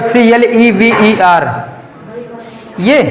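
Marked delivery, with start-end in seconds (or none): 0.0-1.5 slow, letter-by-letter spelling of clever; spelled out letter by letter. Shown as a demonstration. Teacher dictating spelling to class, slow letter by letter. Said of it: "कौन सा, क्लेवर".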